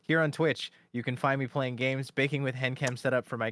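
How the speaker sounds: stiff read-out channel blurb; reading a description. Real, not acted. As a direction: recite it like a profile bio. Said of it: "are you just reading the description?".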